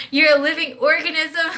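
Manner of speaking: says it again through a laugh. Shown as a demonstration. Telling her own body it's alive, laughing. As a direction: let the laugh break into the line.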